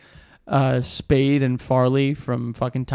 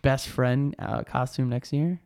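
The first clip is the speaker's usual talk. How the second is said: coy proposal. Real, not acted. Co-host shyly asking friend to pair up for costumes, coy. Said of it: "Why are you saying it like that?".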